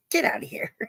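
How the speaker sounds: whispered through laughter; laughing dismissal. Real, not acted. Shooing Laura away while laughing. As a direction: giggle it out, breathless.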